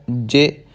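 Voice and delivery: ਜੇ said with a short, light vowel. Shown as a demonstration. Teacher models for learners, short ਜੇ. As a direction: keep the vowel of ਜੇ brief. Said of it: "ਇਹਦਾ ਉਚਾਰਨ ਛੋਟਾ ਕਰਨਾ ਹੈ".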